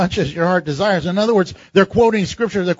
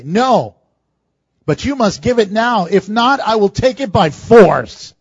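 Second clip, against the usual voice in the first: threatening priest; 6 dB louder than usual. Retold or imitated. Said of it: "He would answer him and say".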